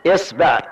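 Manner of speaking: إصبع with i and i, isbiʕ; إصبع, i start, short i middle, isbiʕ; isbiʕ with kasra. Shown as a demonstration. Teacher demonstrates the third kasra variant, isbiʕ. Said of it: "نأخذ كسر الهمزة".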